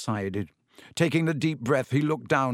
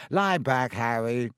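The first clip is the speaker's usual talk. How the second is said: soothing. A narrator's reading. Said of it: "said Lockhart soothingly".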